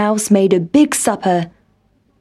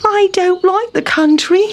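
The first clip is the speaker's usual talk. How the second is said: sighing; 10 semitones higher than usual. A narrator's reading. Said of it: "sighed Town Mouse".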